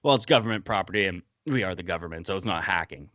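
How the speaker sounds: brisk, smug government line. Retold or imitated. Walker smugly dismissing Sam's complaint, smug and quick. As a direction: brush off the complaint with smug superiority. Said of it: "this smug-ass response from John Walker".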